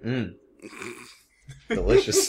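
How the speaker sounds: mock savoring. Joking reply about Swiss cheese.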